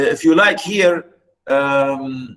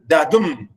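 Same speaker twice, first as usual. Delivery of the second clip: dadum with light da, strong DUM; chant-like dadum, weight on DUM; low-up iambic beat. Shown as a demonstration. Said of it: "you start low and go up".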